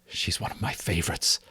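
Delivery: soft unvoiced whisper. A narrator's reading. Father whispering his delight at the naming. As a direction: breathe it out as a secret. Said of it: "his father had whispered".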